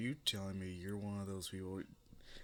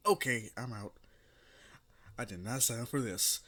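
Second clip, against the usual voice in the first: indignant walkout; 2 semitones higher, 5 dB louder than usual. Acted. Character storming off indignantly.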